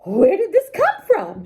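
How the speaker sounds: quick, rising amazed exclamation; excited cry. Acted. Wife amazed at the box of money, excited cry. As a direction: burst out in amazement. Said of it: "she cried".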